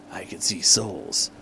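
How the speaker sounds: eerie soft whisper. Acted. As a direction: whisper it like a secret. Shadow voice whispered.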